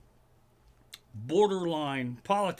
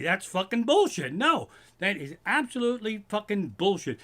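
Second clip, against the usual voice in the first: angry; 5 semitones higher, 3 dB louder than usual. Real, not acted.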